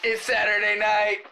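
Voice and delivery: party bro, building to a high shout; Batman. Acted. Co-host plays a partying superhero, building to a shout. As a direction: rise to a loud, stretched-out whoop. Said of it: "my Batman voice would be like".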